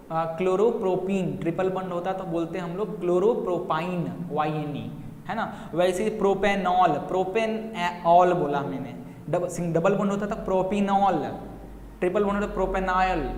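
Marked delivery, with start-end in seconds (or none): 5.7-13.3 careful teacher pronouncing प्रोपेनॉल; pronunciation demo. Shown as a demonstration. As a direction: spell out प्रोपेनॉल, प्रोपिनॉल, प्रोपेनॉल for the class. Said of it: "इस तरीके से pronounce करते हैं".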